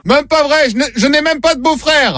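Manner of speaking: a lightly voiced aggrieved patient; mock patient voice. Prankster playing the patient to the shopkeeper, mild protest.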